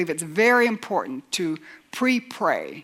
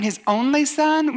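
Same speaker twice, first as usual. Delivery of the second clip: higher, slow questioning of the phrase; incredulous echo; 6 semitones higher than usual. Acted. Skeptic questioning the verse just quoted, incredulous echo. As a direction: throw it back as a doubting listener.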